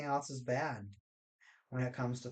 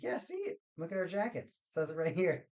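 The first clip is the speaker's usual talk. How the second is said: squeaky mock voice; 5 semitones higher than usual. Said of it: "they're like".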